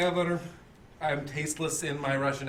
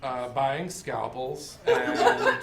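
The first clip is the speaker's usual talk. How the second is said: slow, breaking into laughter; laughing; 2 semitones lower, 3 dB louder, much slower than usual. Real, not acted. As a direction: stall while cracking up. Cracking up mid-pitch.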